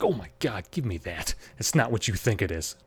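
soft and low, hushed mom; embarrassed hush. Retold or imitated.

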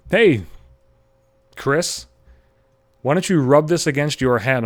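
put-on excited little girl. Six-year-old girl calling out.

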